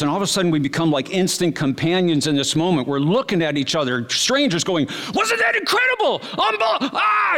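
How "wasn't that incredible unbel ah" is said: ecstatic shout. Retold or imitated. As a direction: shout in disbelief with joy. Strangers exclaiming after fireworks.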